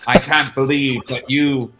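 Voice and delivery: loud guard's speech in a rough try at Scottish; attempted Scottish accent. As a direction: proclaim it in an imperfect Scottish accent. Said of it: "trying to do the accent for the guard".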